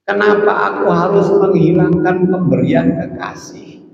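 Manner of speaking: a touch of gentle wonder; lightly voiced saint asking why; saintly reply. Halimatus Sa'diyah answers her worried students. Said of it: "Apa kata Halimatus Sa'diyah?".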